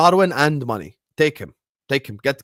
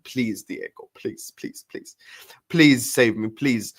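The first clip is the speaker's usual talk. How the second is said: mock begging; slower than usual. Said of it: "Just beg him".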